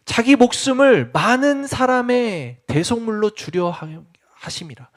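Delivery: each word laid down slowly, the last fading to a whisper; slow it right down and let it die away; slow, weighty reread. Shown as a demonstration. A preacher rereads the verse slowly for weight. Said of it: "repeat of the verse just read".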